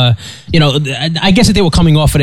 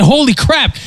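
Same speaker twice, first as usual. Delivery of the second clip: higher, thrilled exclamation; retold excitement; 8 semitones higher than usual. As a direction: blurt it out, caught up in her excitement. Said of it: "And she made me excited".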